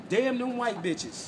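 slow, drawn-out curse with a heavy fall on damn; slow bitter curse. Retold or imitated. Retelling the boy's last words as a slow, bitter curse. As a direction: spit out each word slowly like a final curse. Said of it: "The last thing on my lips is".

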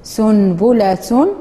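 سنبلة drawn out slowly, syllable by syllable; slow model reading. Shown as a demonstration. Teacher modelling a word for the class, very slowly. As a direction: spell سنبلة out slowly with the ending. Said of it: "وتسموها بالفصحى سنبلة".

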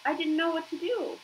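high, pleading little voice; a frightened child confessing; scared crying. Acted. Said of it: "cried the goose".

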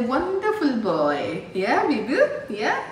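lilting, affectionate praise with coaxing questions; fond praise. Real, not acted. Fondly praising the boy beside her.

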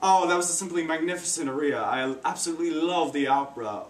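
lightly put-on British opera lover; a hint of theatrical British admiration; British accent. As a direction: praise it in mock British. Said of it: "I talked like I was British".

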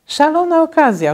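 mother thrilled by flying pillows; mama delighted as cushions rise; delighted exclaim. A narrator's reading. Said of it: "ucieszyła się mama".

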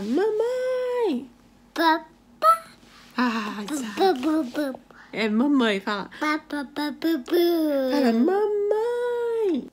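high, stretched motherese, coaxing; mother coaxing her baby to say mamãe, high baby talk. Acted. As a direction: sing it up high so the baby copies you.

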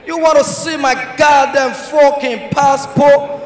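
mock American shout, slow and drawn out. American traveller to passport officer, indignant mock shout. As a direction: stretch out the outraged words like an American. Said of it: "The American guy say dey shout".

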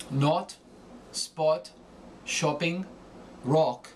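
"Not, spot, shopping, rock" with rounded European O; German short O. Shown as a demonstration. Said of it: "The short O becomes A".

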